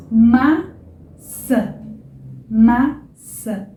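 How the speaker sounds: maçã ending in a nasal ã. Shown as a demonstration. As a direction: draw out the final ã of maçã through the nose. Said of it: "ã, bem nasal".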